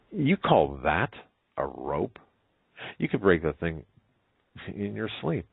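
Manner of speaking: slow, incredulous challenge; mock disbelief at so feeble an obstacle; scoffing. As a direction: scoff at it, pausing for effect. Girl scoffs at the rope.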